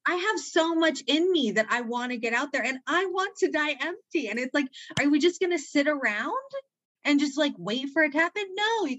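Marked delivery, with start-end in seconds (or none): 0.1-4.3 close to tears. Real, not acted. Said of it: "I'm gonna cry right now saying this".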